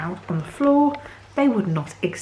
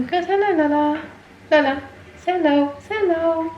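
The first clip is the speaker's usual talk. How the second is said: much higher pet voice; talking to the dog; 11 semitones higher, 3 dB louder than usual. Real, not acted. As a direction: sing it up at the puppy. Urging the dog to greet.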